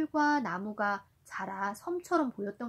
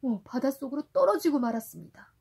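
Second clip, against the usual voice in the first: put-on reading to a toddler; 4 dB louder than usual. A narrator's reading. Parent reading Sindbad to a child.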